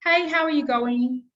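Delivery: cheerful banked greeting; recorded greeting demo. Shown as a demonstration. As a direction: say it like a recorded message. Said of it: "That's gonna be how it sounds".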